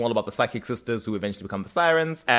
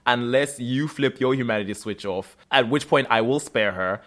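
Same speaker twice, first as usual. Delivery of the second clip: mock villain. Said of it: "Sybil also comes in and is like".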